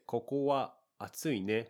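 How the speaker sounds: stiff, overly correct phrasing; robotic. Shown as a demonstration. Teacher shows the stiff version with wa, robotic. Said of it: "that sounds a little robotic".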